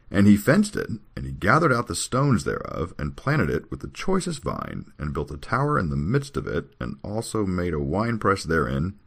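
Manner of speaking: measured recitation with stressed key words; formal, deliberate declamation; scripture reading. Acted. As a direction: read it out verse by verse. Reads scripture aloud.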